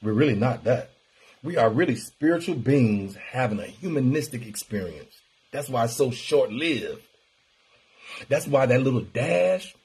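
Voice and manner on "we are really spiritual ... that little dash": preachy voice. Acted. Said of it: "I don't know why I'm talking like this".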